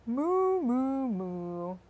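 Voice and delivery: put-on playful cow moo for kids. Naming the animals with the kids, a playful moo. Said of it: "cow saying".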